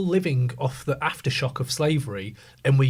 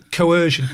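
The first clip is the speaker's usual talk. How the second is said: Coercion punched loud and falling; emphatic coercion; 2 semitones higher, 6 dB louder than usual. Real, not acted. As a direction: hit Coercion hard as the key word. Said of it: "My word is coercion".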